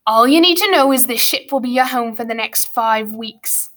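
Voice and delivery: curt master's character voice; stern schoolmaster. Acted. Grumpkin telling orphans of the voyage, stern and dismissive. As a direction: lay it down to the boys.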